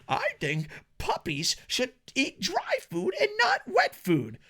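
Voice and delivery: very high whiny mock voice; high mocking whine about pet food; whiny complainer. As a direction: whine like an entitled viewer. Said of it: "Be like".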